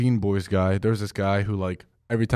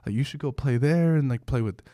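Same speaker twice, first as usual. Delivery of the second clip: imitating old man; 5 semitones higher than usual.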